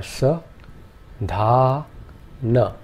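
sa, dha, na said separately; syllables apart. Shown as a demonstration. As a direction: sa dha na, one at a time. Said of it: "the three syllables are".

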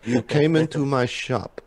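confrontational shopkeeper voice; combative shopkeeper. Acted. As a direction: challenge the customer. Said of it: "come up with a shopkeeper voice right now".

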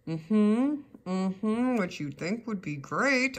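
forced words through clenched teeth; through gritted teeth. Real, not acted. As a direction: grit your teeth and push it out. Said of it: "I'm saying through gritted teeth".

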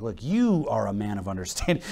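low, soft, reasoning tone; calm, unpanicked appeal. Acted. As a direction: reason with him without any panic. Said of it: "No, no, no. She's just like".

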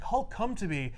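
softly imitated otherworldly summons; ethereal voice. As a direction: call gently, as if from afar. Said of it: "hears this ethereal voice".

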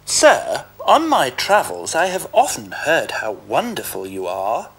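butter up the ogre sweetly; nicest voice. Acted. Puss flattering the ogre at his door, sugary sweet. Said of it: "said Puss in his nicest voice".

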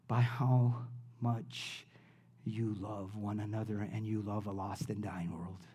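sincere preacher easing down to a hush; softening emphasis. Real, not acted. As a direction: let the point sink in quietly. Sermon point, drops soft.

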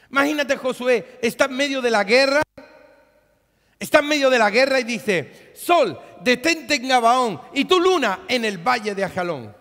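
loud, high, driving sermon voice; fiery preacher building to a roar; full-force preaching. Acted. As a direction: preach it out over the congregation.

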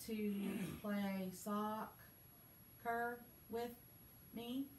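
slow, choppy word-by-word reading with long gaps; robot reading. Shown as a demonstration. Teacher showing the class how not to read, in a slow choppy robot voice. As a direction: read it stiffly, one word at a time, like a mild robot. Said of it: "you're not gonna talk like that".

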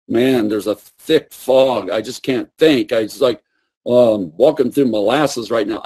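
low, fast, dazed mumble as if in a fog; dazed and depressed. Retold or imitated. Preacher imitating Elijah under oppression, low and dazed. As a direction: sound lost and foggy-headed. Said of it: "Elijah is actually like".

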